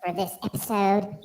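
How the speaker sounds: cocky hype-man persona, playful swagger; strutting show-host alter ego, easing toward normal; Baby Fro character. Pretend. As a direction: play a sassy wig character, starting high and loud.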